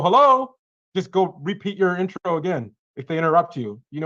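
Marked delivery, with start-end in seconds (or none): 0.0-0.5 loud hello. Acted. Acting prospect answering loudly.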